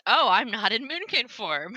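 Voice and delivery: mock dawning realization with lively swoops; sudden realization. Player realizing the mistake, mock sudden realization. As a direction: act out a belated discovery. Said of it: "they realized".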